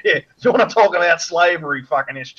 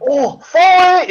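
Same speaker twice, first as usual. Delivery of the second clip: much higher, louder, slow mock apology; mock Asian accent; 12 semitones higher, 6 dB louder, slower than usual. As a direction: drag out the apology in a put-on accent. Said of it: "Oh, they go".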